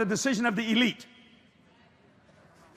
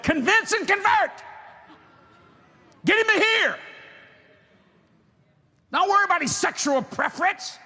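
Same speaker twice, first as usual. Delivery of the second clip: the Lord's voice; 6 semitones higher, 3 dB louder than usual. Retold or imitated. The Lord speaking to preacher.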